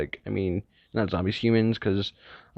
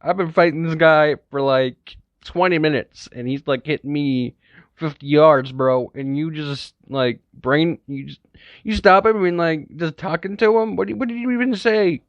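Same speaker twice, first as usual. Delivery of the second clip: high, loud, exasperated ranting; freaking out; 6 semitones higher, 4 dB louder than usual. Acted. Izuku ranting at Shinso after the long fight, high exasperated rant. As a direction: vent in disbelief at the teammate.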